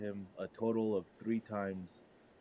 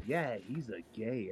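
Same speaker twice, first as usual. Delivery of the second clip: wrong wording, slow; slower than usual. Retold or imitated. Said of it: "You're saying it all wrong, dude".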